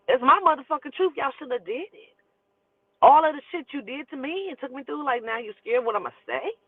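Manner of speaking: high-pitched, defiant comeback; indignant defiance. Retold or imitated. Writer answers her worried family, defiant and indignant.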